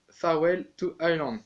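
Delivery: "Farewell to Ireland" said in an attempted English accent. Real, not acted. Flute teacher names the Irish tune in an English accent. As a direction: tune title voiced in a jokey English accent. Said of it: "J'ai un super accent anglais".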